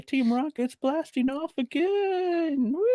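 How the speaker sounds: high, slow blasting-off cry; Team Rocket blasting off. Retold or imitated. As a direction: yell it while flying off. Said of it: "this moment is basically".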